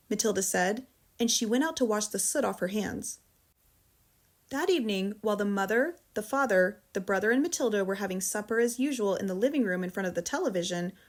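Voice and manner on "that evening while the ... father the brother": ordinary delivery, nothing marked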